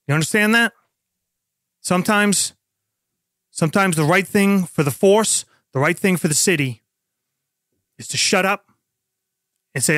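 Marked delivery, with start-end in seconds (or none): 0.1-8.7 stern lecture. Acted. Lieutenant lecturing sergeant.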